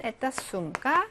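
에따 숨가 said slowly and softly; slow Russian model. Shown as a demonstration. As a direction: read 에따 숨가 slowly for students. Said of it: "이 가방은". (에따 숨가 천천히 시범)

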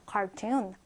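"cartoon" low and soft, its "oo" drawn out; long oo. Shown as a demonstration. Teacher repeating the model for learners, "cartoon" with a long oo. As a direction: lengthen the oo at the end of "cartoon". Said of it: "오 발음을 좀 길게 하는 거예요".

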